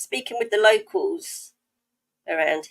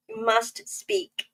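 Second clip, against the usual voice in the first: mum's admonition; 9 semitones higher than usual. Retold or imitated. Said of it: "That's what my mum used to say".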